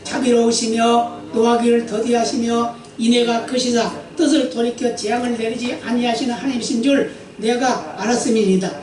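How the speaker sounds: 또박또박 경건하게 읽는 성경 낭독; 회중 앞에서 말씀을 엄숙히 읽어 주듯. Acted. Reads scripture aloud. (설교자가 회중에게 본문을 읽어 주는 경건한 낭독)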